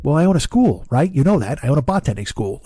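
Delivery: lightly voiced pushy neighbor; a touch of imitated neighborly salesmanship; Lou impression. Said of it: "your ears are bleeding from my Lou".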